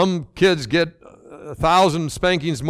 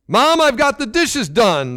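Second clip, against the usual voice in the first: higher, slow call across the room; 8 semitones higher, slower than usual. A narrator's reading. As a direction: call it out from the doorway. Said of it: "the girl called from the door".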